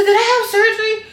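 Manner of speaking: mock surprise. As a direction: ask it like it just dawned on you. Confused waking, retold laughing.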